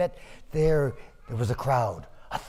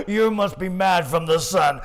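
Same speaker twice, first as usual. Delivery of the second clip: mocking laugh; 4 semitones higher, 5 dB louder than usual. Merchant mocks the farmer.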